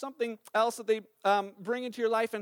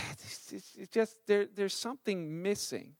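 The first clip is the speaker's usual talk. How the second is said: soft, breathy, almost whispered musing; hollow longing; 2 semitones lower, 7 dB quieter than usual. Retold or imitated. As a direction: sigh it out like someone lying awake, empty. Voicing inner empty longing.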